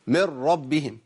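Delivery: من ربهم with the ن dropped into a doubled ر; idgham example. Shown as a demonstration. Teacher giving an example, lightly recited. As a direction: say من ربهم as مرّبهم. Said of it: "زي إيه".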